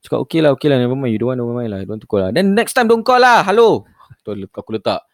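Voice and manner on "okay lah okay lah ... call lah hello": scam caller voice. Retold or imitated. Caller giving up, sign-off.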